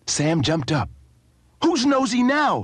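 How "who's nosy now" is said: yelled. A narrator's reading. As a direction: shout it back at the man, stung. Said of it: "he yelled".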